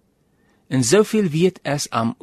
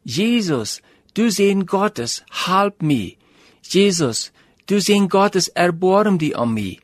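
a blind beggar calling out, pitched up a little; half-shouted plea to Jesus; raised voice, not a full shout; mock crying out; 4 semitones higher, slower than usual. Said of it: "dan vangt er aan te schreeuwen".

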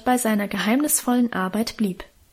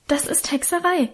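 put-on higher, agitated cry of a scared girl; frightened; 6 semitones higher than usual. A narrator's reading. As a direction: insist on it, wide-eyed and shaken. Frightened maid reports witchcraft.

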